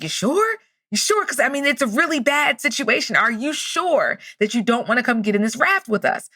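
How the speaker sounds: high, rising "you sure?"; incredulous check. Retold or imitated. Raft guy double-checks with the stranded man, incredulous. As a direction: urge with disbelief, pitch jumping up. Rescuer doubting roof man.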